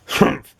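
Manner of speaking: short annoyed humph; grumpy grunt. Acted. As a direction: grunt it out crossly. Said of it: "grunted Mister Grumpy".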